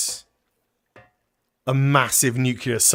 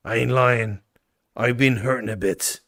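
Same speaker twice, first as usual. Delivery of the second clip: put-on reads the journal in a vague folksy rural accent; half-improvised rustic accent; unplaced rural accent. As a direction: give the writer a rough country accent, lightly. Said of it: "I don't know what accent this is".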